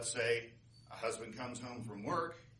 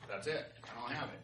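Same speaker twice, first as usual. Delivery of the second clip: winded, softer giving-up voice; out of breath; 7 dB quieter than usual. Acted. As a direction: give up, pretending to be spent. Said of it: "totally out of breath".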